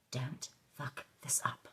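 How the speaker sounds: softly spoken self-warning; stern self-talk. Acted. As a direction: give yourself a quiet, slow talking-to. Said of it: "I had a little talk with myself".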